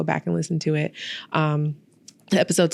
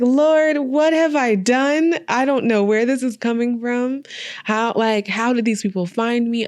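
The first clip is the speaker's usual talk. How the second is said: overwhelmed disbelief; 6 semitones higher than usual. Retold or imitated. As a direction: throw the words up high, as if you can't believe it. Overwhelmed by invitation, retold disbelief.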